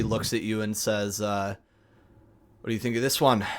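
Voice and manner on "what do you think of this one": light Cockney, sizing someone up; Cockney-accented aside to a companion. Acted. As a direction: ask it like a casual Cockney. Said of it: "I'm doing a Cockney accent".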